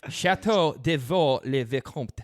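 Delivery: slow, deliberate "Château de Vaux-le-Vicomte"; "Château de Vaux-le-Vicomte" enunciated slowly as a French lesson; French pronunciation. Shown as a demonstration. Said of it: "yes, I, I took French".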